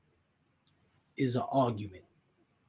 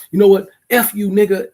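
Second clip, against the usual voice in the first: loud, higher hammed-up "F you"; mock angry shout; 7 semitones higher, 11 dB louder than usual. Spouse acting out a bedtime fight, mock shouting. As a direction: blow up at your partner in play.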